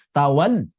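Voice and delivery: 'tawalla' cut after a dropping 'tawal'; exaggerated broken lam. Shown as a demonstration. Teacher shows what not to overdo, broken lam. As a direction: let 'tawal' die away before 'la'. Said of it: "Nggak begitu".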